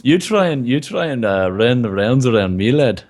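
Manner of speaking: mock-threatening Southern Irish brogue; playful tough talk in fake Southern Irish; Southern Irish accent. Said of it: "he's doing Southern Irish".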